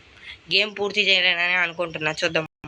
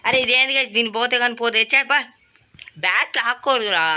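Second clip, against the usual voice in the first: indignant outburst; 4 semitones higher than usual. Real, not acted. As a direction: protest at the unfair game. Granny grabs the bat.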